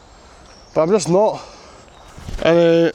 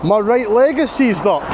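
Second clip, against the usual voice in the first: exhausted; 6 semitones higher, slower than usual. Real, not acted. Exhausted progress report.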